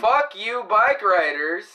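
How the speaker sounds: loud, high mock outburst; hammed-up loud cursing; voicing another's disgust. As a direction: blurt out the other person's contempt. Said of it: "I was speaking for you".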